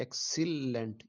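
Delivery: एक्सीलेंट in three parts, "ek / sil / lent"; syllable division. Shown as a demonstration. Teacher showing how it divides, एक्सीलेंट syllable by syllable. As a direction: break एक्सीलेंट after ek and sil. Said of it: "ये इस तरह".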